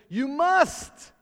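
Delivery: high, loud command; preacher thundering you must forgive; commanding shout. Acted. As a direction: bark it as an order. Preacher voicing Jesus's command.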